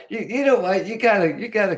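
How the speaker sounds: thrilled high-pitched outburst; excited. Real, not acted. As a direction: squeal it out to a friend. Delighted outburst at a commenter.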